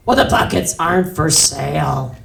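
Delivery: lightly voiced stubborn clerk; a hint of indignant clerk; protesting clerk. Clerk refusing the customer, lightly voiced protest.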